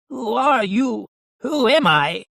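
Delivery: high, forceful raspy doll; stronger raspy voice. A narrator's reading. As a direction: rasp it out high and demanding. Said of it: "same raspy voice, only stronger".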